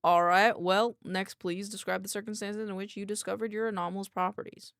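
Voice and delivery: put-on light country accent, formal questioning. Doctor asks a researcher the basics, light country accent. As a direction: interview with a hint of country. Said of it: "give him a country accent".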